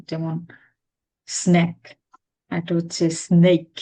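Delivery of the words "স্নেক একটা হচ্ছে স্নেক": স্নেক said slowly and carefully, each sound clear; স্নেক with a clean "sn-ake" vowel; distinct pronunciation. Shown as a demonstration. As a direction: spell out স্নেক clearly like a teacher. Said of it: "distinctly উচ্চারণ করতে পারি".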